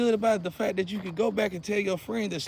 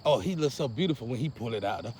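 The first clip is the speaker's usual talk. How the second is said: swooning woman impression; 6 semitones lower, faster than usual.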